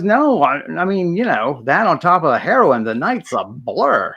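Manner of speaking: tossed off, easygoing; casual driver voice. Retold or imitated. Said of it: "he goes".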